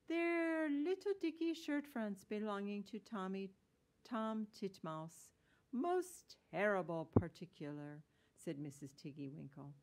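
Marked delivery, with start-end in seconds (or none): 0.1-8.0 loud storybook washerwoman, starting high; fussy washerwoman. Acted. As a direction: explain it fussily, high and loud then settling. Voices Mrs. Tiggy-Winkle in story.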